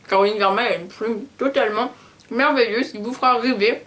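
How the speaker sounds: chewing while talking; mouth full. Real, not acted. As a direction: keep talking through the chewing. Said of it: "en mangeant et en mâchant".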